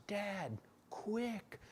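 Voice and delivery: high, loud, slow panicked cry; frantic yell. Retold or imitated. Daughter yelling to dad after the crash. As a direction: shout it up high in alarm. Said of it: "and yells".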